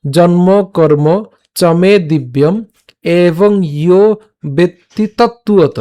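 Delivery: slow, measured shloka recitation; verse recitation demo. Shown as a demonstration. Teacher shows learners the verse from the start, slow recitation. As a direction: recite the verse phrase by phrase, slowly. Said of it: "আমি আবার প্রথম থেকে বলছি".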